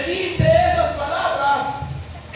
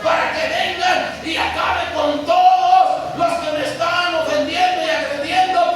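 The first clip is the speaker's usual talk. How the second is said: loud, slow, forceful rebuke; Jesus rebuking loudly; 3 semitones higher, 4 dB louder, slower than usual. Acted. Preacher voicing Jesus rebuking Peter, loud and slow.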